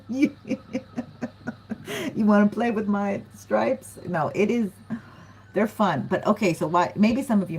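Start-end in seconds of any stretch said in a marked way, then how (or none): 0.1-4.0 flirty mock taunt; playful tiger taunt; teasing tiger. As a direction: tease like a cat daring you.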